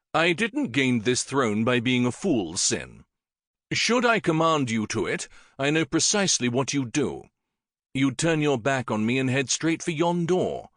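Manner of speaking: wry royal knowingness; king teases his old friend; lightly voiced shrewd king.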